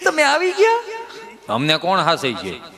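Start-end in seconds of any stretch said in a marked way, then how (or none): 0.1-0.8 high, eager greeting with a giggle; excited wife. Acted. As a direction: gush at the husband arriving.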